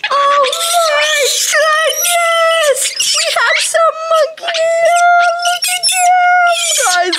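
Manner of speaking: high, loud shrieks of delight, drawn out slowly; overjoyed squeal, close to tears; squealing excitement. Real, not acted. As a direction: gush over the monkeys reuniting at the top of your voice. Monkeys reunite, she squeals.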